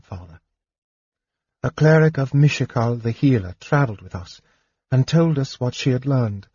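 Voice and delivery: lightly voiced elf princess, earnest and confessing; a hint of a young woman's voice; earnest daughter. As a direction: admit your jealousy to your father. Daughter confesses to her father.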